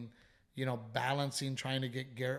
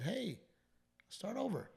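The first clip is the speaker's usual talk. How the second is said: tender reconciling; 8 semitones higher, 7 dB quieter than usual. Retold or imitated. Retelling their making up, hand in hand.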